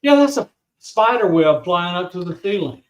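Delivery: dry sarcasm in an everyday voice; understated, mock-helpful explanation; sarcastic. Real, not acted. Joking to partner about what floats on screen, sarcastic. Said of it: "Sorry for my sarcasm".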